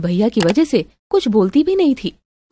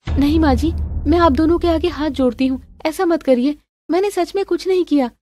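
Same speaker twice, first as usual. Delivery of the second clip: higher, imploring voice; pleading daughter-in-law; 5 semitones higher than usual. Acted. Daughter-in-law begging with folded hands, pleading. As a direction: beg for belief, pitch lifted. Begs not to be thrown out.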